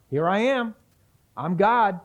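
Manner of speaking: loud, high declaration, spoken as Jesus; bold proclamation. Retold or imitated. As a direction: announce it boldly to the crowd. Voicing Jesus's claim to God.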